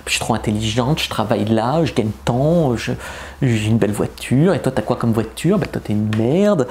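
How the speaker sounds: a hint of a smug show-off; bragging airhead voice. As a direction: show off smugly as a bragging woman. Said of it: "je fais des voix de conne".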